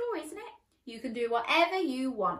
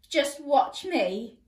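defiant princess; 3 semitones higher, 5 dB louder, slower than usual. Acted. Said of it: "replied the princess".

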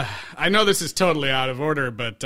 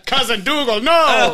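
hammed-up movie line; 5 semitones higher, 3 dB louder than usual. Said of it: "parodying the movie line".

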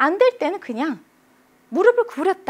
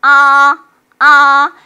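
long, loud, high "아"; high level tone; 3 semitones higher, 14 dB louder, much slower than usual. Shown as a demonstration. Patient opening up for the dentist, high level tone. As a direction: open wide and hold "아" steady. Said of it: "일성은 치과 가서".

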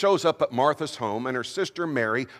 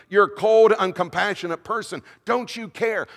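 accusing; 5 semitones higher than usual. Acted. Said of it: "beating him up with words".

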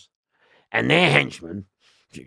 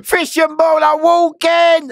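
slow, high, loud holler; imitated officer's drawn-out call; called-out announcement; 6 dB louder, slower than usual. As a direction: stretch the shout out on one high pitch. Repeats the officers' alarm call.

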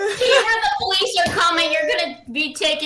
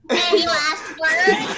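slow, laughing taunt; slower than usual. Acted. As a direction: drawl it out through laughter.

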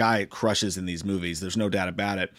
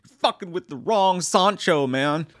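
high, louder mock tough-guy voice; hammed-up macho cop impression; 6 semitones higher, 4 dB louder than usual. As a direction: sneer it like a cocky cop. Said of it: "they're like".

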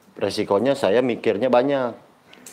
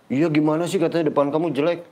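retold boss objecting, pitched higher; mock protest; 6 semitones higher than usual. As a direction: object in a lightly raised, puzzled voice. Retelling boss's puzzled objection. (menirukan bos protes heran, nada lebih tinggi)

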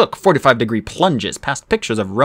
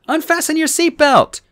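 yelled. Acted. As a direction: shout it over the roaring water. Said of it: "I yelled to Annabeth".

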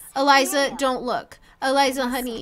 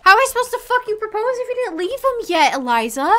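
higher, louder, fast exasperated rant; 8 semitones higher, 4 dB louder, faster than usual. Real, not acted. Gamer ranting at her Sim, fast exasperated outburst. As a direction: blurt it out in frustration.

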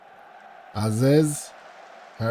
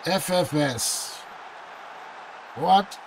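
ordinary delivery

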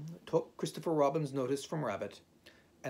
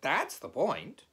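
slow, high, loud emphasis; impatient insistence; 5 semitones higher, 6 dB louder, slower than usual. A narrator's reading. Rabbit pushing Owl back to the question, insistent. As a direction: drive the point home slowly.

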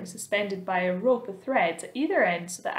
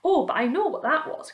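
put-on higher, eager boy's recognition; excited cry; 7 semitones higher, 4 dB louder than usual. A narrator's reading. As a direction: cry out, having recognised the story. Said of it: "cried James".

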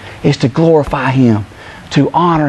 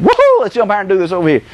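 rushed, high whooping outburst; impulsive whoop; 4 semitones higher, faster than usual. Acted. Preacher acting out impulsive Peter jumping in, excited whoop. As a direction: blurt it like an eager rookie. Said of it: "he's impulsive".

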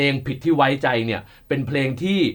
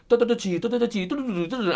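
rattling off a quick drum pattern with the mouth; beatbox the fill like a drummer explaining it; vocalized drum fill; 9 semitones higher, 3 dB quieter than usual. Shown as a demonstration. Drummer showing his fill to the young listeners, mouthed drum beat. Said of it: "มันมีลูกนึงที่เป็น".

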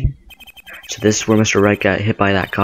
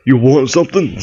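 louder voice for a big lady; big woman's voice; 4 semitones higher, 4 dB louder than usual. Shown as a demonstration. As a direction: put some size behind it. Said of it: "she looks big".

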